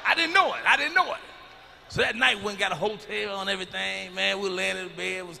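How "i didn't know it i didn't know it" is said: high, loud i didn't know it; mock shock. Comic storyteller to audience, shocked about the eye. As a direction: blurt it in comic disbelief.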